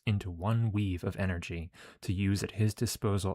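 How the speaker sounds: measured read-aloud of game text; story narration. Acted.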